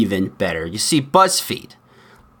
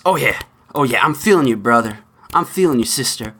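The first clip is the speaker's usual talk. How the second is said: mocking snowflake student. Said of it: "They do sympathy snaps".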